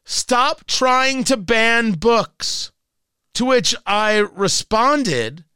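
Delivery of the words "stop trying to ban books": slow mocking read. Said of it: "a tweet".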